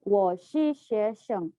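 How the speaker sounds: very slow, syllable by syllable; slow example. Shown as a demonstration. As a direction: spell out the Mandarin sentence slowly for learners. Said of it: "Contoh kalimatnya".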